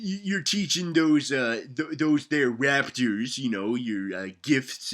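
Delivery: ordinary talk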